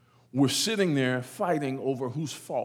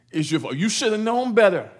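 mock accusing wife; 7 semitones higher, 6 dB louder than usual. Repeats Sarah's blame, mocking.

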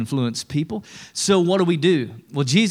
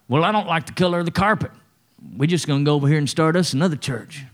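mock petty complaint; faster than usual. Mocking petty church member.

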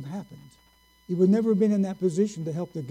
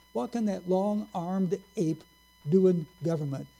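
mocking sneer. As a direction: drag out each word like an insult. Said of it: "a phrase that he used constantly".

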